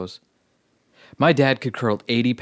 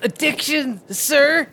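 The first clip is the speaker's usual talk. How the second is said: recruit shout; 14 semitones higher, slower than usual. Acted. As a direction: snap it out to the sergeant. Recruit answers sergeant.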